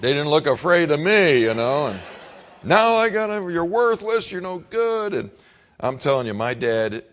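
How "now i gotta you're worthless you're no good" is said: hammed-up angry father; imitating dad's insults. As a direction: spit insults like a harsh father. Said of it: "dad insulting again".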